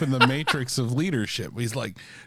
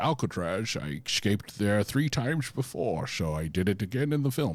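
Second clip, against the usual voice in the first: put-on Scottish accent, lower pitch; 4 semitones lower than usual. Doing a bit where the movie is claimed real: Sean Connery voice. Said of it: "my whole bit where I pretend like Sean Connery".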